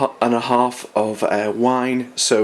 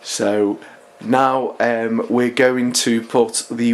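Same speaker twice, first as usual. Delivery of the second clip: blocked nose, nasal voice; nasally voice. Real, not acted. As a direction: speak with a stuffy nose. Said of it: "sorry for the nasally voice".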